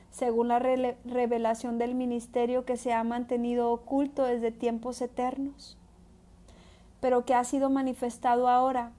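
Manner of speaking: measured, declaiming Bible reading; scripture reading. Acted. Preacher reading Romans aloud to the congregation, solemn and measured. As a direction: read the verses out with weight. Reads final verses.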